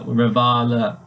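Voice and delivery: slow "rivala" with an ee-like first vowel; German pronunciation. Shown as a demonstration. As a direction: stretch the "vah" in German "rivala". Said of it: "replacing that I with an E".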